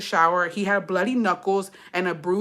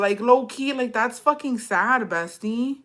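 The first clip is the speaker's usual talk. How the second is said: high-pitched, on the verge of crying; close to tears; 4 semitones higher than usual. Real, not acted. Reader tells listeners the letter is sad, close to tears. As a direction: react as if about to cry. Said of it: "I literally wanna cry".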